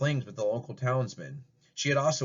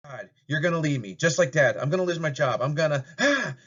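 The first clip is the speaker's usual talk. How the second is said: louder, spiraling into a yell; mounting panicked shout; 4 semitones higher, 4 dB louder than usual. Acted. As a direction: daughter loses it, fearing abandonment. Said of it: "Susie shouts".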